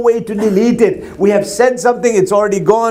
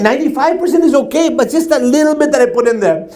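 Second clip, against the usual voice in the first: father insisting; 6 semitones higher than usual. Acted. Father defends the cupcakes.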